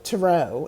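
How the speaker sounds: TAROT said "tuh-ROH"; silent-T pronunciation. Retold or imitated. Quoting the girl's reply, TAROT said tuh-ROH. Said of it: "Why is she saying that wrong".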